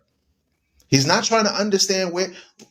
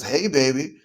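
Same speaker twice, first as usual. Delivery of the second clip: smooth seducer; 4 semitones lower than usual. Retold or imitated. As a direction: croon it like a lady-killer. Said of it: "comes down and says".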